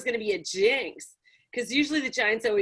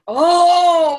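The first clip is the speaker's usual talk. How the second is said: loud exclamation; 7 semitones higher, 12 dB louder than usual. Real, not acted. Sudden outburst mid-burp.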